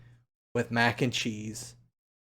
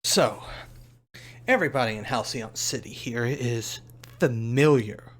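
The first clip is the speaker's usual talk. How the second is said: melodramatic newscaster. Acted. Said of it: "one of those melodramatic newscasters".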